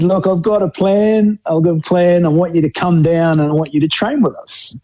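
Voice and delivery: lightly voiced old coach laying out his plan; imitating the coach. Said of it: "he said".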